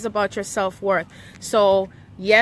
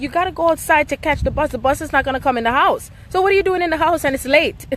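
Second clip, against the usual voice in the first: higher, quicker, half-playful scold; mock scolding mom; 6 semitones higher, 3 dB louder, faster than usual. Mom telling the kids to get out to the bus, higher and quicker mock scold. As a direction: hurry the kids out like a busy mom. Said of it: "it's like I tell the kids".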